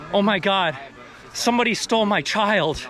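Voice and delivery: mild mock dramatic cry; a lightly hammed-up panicked parent; acting without cigarette. Shown as a demonstration. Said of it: "check this out, no cigarette".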